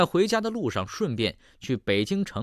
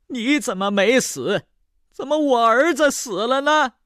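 much higher, louder furious outburst; 13 semitones higher, 5 dB louder than usual. Acted. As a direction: rage at him for surviving her son. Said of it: "老太太听后勃然大怒". (老太太勃然大怒，尖声质问)

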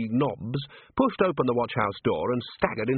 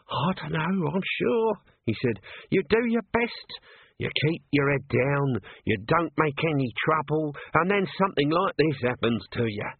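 higher, aggrieved little man; lightly voiced self-pitying corporal; 5 semitones higher than usual. Nobby complaining to Colon about his lot, higher and aggrieved. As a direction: feel hard done by, a touch higher.

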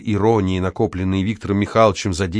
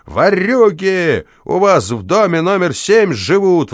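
high, loud, drawn-out bawl; yelling; 9 semitones higher, 4 dB louder, slower than usual. Acted. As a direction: howl it across the yard. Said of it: "вопил дворник". (дворник вопит на весь двор, высоко и громко)

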